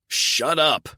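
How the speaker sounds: high, loud angry shout. A narrator's reading. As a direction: bark it to silence her. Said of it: "I shouted".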